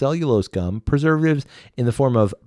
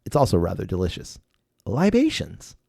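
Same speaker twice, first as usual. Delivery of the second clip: label read aloud; 2 semitones higher than usual. Shown as a demonstration. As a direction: read the bottle copy like a pompous ad. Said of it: "I'm gonna read you some bottle words".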